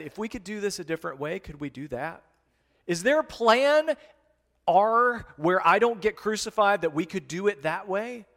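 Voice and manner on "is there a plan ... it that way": mock pleading. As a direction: plead with a wry, hopeful ask. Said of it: "The Savior of the world actually said".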